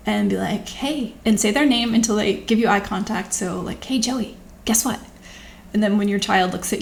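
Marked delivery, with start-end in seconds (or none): 0.7-1.1 playful tone. Shown as a demonstration. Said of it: "have kind of a playful tone in your voice". 3.8-5.0 playful tone. Shown as a demonstration. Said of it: "have kind of a playful tone in your voice".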